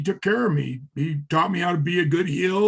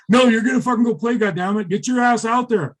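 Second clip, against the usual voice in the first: fast, raised-pitch mock bossing; retold insistent order; 4 semitones higher, faster than usual. Friend shoves reluctant guitarist onto the stage, insistent. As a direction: rush out a pushy command.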